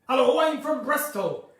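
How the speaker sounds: West Country accent; Bristol accent. Shown as a demonstration. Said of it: "is that more Bristol?".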